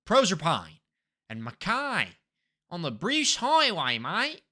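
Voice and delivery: put-on Aussie place names; playful Australian twang; Australian accent. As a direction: read it out in mock Australian. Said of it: "I do an accent of where I think I am".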